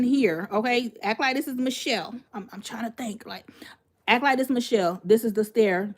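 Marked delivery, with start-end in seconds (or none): 2.3-3.5 breathy whisper to herself mid-story; whispered aside. Real, not acted. Storyteller pausing to think, whispering to herself. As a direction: drop to a whisper while gathering your thoughts.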